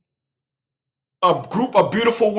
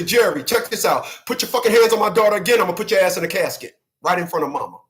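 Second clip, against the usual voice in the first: lightly imitated calm, matter-of-fact threat; understated menace, no shouting; Lydia Snowden. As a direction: deliver the threat evenly, in a quick controlled run. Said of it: "No, Lydia Snow didn't do that".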